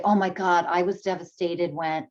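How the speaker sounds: the wrong, selfish answer to a friend's heartbreak; self-centered reply. Retold or imitated. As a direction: brush past their pain to "I was devastated". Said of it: "And we won't say".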